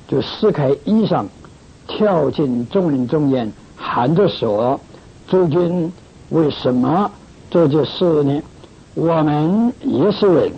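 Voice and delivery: measured, phrase-by-phrase Bible reading; scripture reading. Acted. Preacher reads Acts to brothers and sisters, measured scripture reading. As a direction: read the passage aloud with careful pauses.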